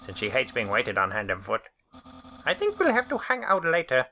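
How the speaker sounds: lively game character voice; character dialogue read. Acted.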